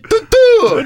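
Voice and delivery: high squeaky mock rant sound; imitating a ranting fan. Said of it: "He said".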